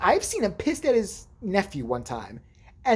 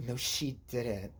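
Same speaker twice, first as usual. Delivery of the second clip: quiet, catty gay-slang imitation; soft mock sassy aside; lightly imitated sassy friend; 4 semitones lower, 4 dB quieter than usual. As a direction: murmur shade at someone, lightly put on. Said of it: "He starts talking like that".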